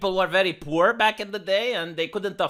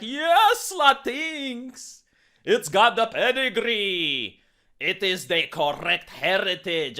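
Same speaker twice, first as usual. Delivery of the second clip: mock gushing; slower than usual. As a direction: gush over the correct pedigree. Mocking Dinklage's gushing.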